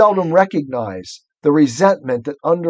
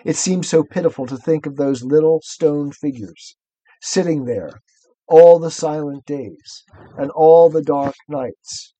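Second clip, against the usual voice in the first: measured, sorrowful storybook reading; story narration. A narrator's reading. Reader pitying little stone figures, story narration.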